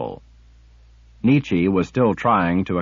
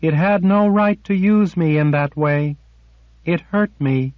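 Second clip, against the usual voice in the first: high, louder, hurt and indignant; indignant torment; 8 semitones higher, 3 dB louder than usual. A narrator's reading. Sliff complaining to Nietzsche, indignant and hurt. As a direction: protest the wrong done to her. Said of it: "indignation layered atop torment".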